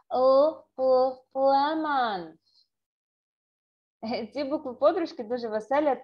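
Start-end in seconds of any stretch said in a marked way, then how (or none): 0.1-2.3 slow "л, lemon" with a loud, held "л"; English L again. Shown as a demonstration. Teacher repeating the English L for pupils, slowly. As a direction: draw out the "л" before "lemon". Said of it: "Ще раз".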